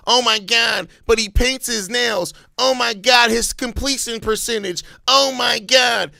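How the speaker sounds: put-on complaining; mock fretting fans. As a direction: imitate people fussing over nothing. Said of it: "when people are like".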